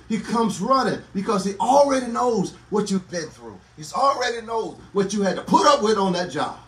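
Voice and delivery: driving, rhythmic preacher's delivery; impassioned preaching. Real, not acted. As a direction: exhort the congregation with rising fervor. Preacher exhorting a congregation.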